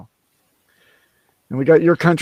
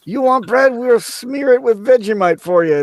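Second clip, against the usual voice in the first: teasing parent voice; 5 semitones higher than usual. Retold or imitated. S1 plays the parent.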